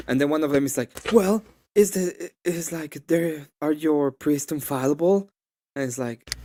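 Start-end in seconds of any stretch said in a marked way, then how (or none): 1.1-5.3 mocking questioner. Opponent questioned in retold argument.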